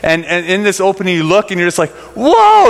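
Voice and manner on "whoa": a big high gasp of wonder; awestruck whoa. Retold or imitated. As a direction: let the view take your breath away, high and loud. Awestruck at sudden ocean view.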